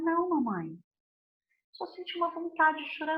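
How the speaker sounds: lightly voiced young daughter answering mom; child explaining to her mother, soft and small; little girl's voice.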